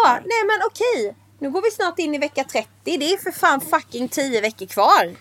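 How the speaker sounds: mock panic. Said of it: "och så bara så här".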